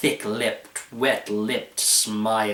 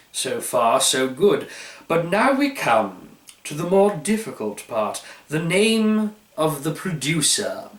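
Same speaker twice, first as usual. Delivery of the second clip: pompous wine expert. Acted. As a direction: savour each word like a fine wine. Pratt resumes his tasting.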